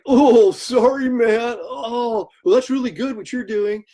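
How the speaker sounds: high, slow, embarrassed backpedalling fan voice; sheepish apologetic fan. Retold or imitated. Fan realises he praised the wrong artist, high and sheepish. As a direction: play the fan caught out, backing off awkwardly.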